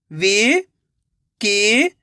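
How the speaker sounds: शिकायत stretched out slowly, sound by sound, rising at the end; slow syllable by syllable. Shown as a demonstration. Reading teacher sounding out a word for children, slowly syllable by syllable. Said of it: "मेरे तरीके पे गौर करना है".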